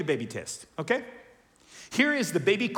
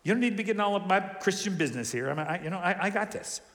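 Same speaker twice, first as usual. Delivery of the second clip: defensive brush-off. Retold or imitated. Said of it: "and we're like".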